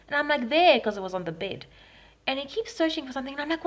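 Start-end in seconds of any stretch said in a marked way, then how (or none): 0.5-0.8 high, loud one-word reply; retold sharp answer. Victim pointing robber to the bed, high loud reply. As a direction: re-enact a panicked answer, loudly. Acting her answer to intruder.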